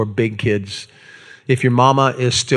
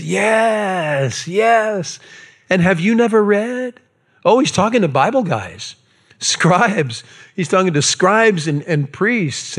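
higher, amused and teasing; smiling Jesus; 5 semitones higher than usual. Retold or imitated. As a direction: grin through it at the scribes. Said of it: "with the biggest smile on his face".

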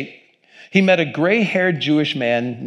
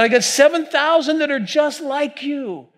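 God with a higher Jewish-inflected voice; wry Jewish lilt explaining the remnant; Jewish accent; 11 semitones higher than usual. Acted. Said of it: "not saying God spoke it with a Jewish accent".

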